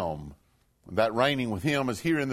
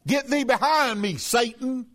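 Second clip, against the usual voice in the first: higher, firm voice of Jesus rebuking; stern rebuke; 7 semitones higher than usual. Retold or imitated. Jesus rebuking Peter, stern and raised. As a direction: throw the rebuke at him. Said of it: "He turned and he said unto Peter".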